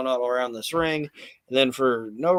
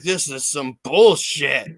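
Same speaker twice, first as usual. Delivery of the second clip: retold angry Bret; 7 dB louder, slower than usual. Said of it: "He's like".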